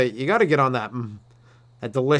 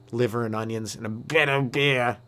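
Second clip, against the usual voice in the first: lower, mock-English accent; weird English guy; 5 semitones lower, 5 dB quieter than usual. Weird Englishman relishing his meal, mock English accent. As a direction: savour it in a hammed-up English accent. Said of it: "that one weird English guy".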